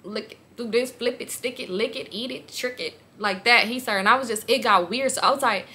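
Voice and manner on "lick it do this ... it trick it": rapid-fire list in an undertone; imitating vulgar talk. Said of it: "just real vulgar".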